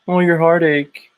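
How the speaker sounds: slow, mock-sympathetic sneer at a sad story; mocking whine. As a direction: drag it out, mocking the sob story. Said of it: "drone on and on about".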